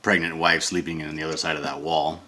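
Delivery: loud, unguarded explaining voice; talking loud. Real, not acted. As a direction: speak up freely, apologizing for the volume. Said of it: "sorry if I'm being loud".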